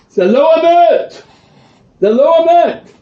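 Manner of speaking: high, loud furious cry of protest; excited shout. Retold or imitated. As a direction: shout the denial at the speaker, outraged. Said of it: "He gets very excited".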